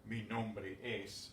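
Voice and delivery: slow, careful Mi nombre es; slow demo. Shown as a demonstration. Teacher repeating for the class, slow careful demo. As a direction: lay out Mi nombre es slowly, word by word. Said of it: "although literally that is the same thing".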